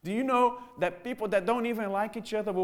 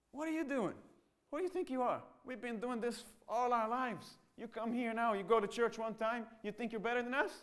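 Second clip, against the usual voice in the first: angry father; 4 semitones higher, 4 dB quieter than usual. Acted. Father mocks son who found Jesus.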